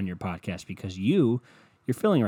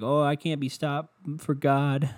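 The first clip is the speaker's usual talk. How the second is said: half-chanted mock testimony; online believer; 4 semitones higher than usual. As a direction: imitate a woman proclaiming her protection. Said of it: "The one lady online, though, she's like".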